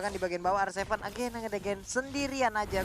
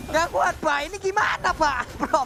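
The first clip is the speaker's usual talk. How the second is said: excited disbelief; 4 semitones higher, 3 dB louder than usual. Real, not acted. Co-caster laughs in disbelief.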